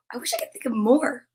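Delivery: unvoiced whispered aside, a bit quick. Real, not acted. Teacher whispers a wish to the class, whispered. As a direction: breathe it out as a quick secret.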